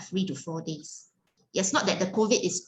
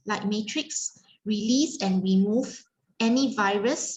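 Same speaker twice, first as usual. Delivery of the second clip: rhythmic incantation. Acted. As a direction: recite the healing command in steady rising cadence. Repeats a healing command.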